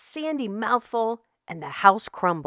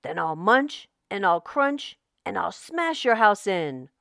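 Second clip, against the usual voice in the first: mild roar. Acted. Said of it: "roared the shark".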